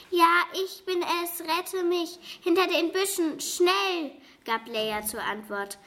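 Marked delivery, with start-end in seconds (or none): 0.1-4.1 high, urgent begging for rescue; a scared witch pleading to be saved; frightened plea. A narrator's reading. The witch begs Leonie to rescue her, higher and frightened. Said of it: "Sie klang ängstlich".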